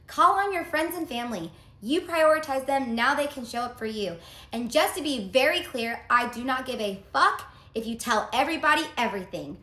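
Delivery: wife loudly mocking her ex's cruel text message; loud mocking read. Reading her ex's harsh text.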